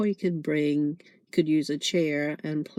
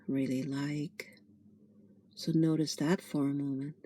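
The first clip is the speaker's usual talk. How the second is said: guided meditation. Acted. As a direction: gently guide them into noticing the breath.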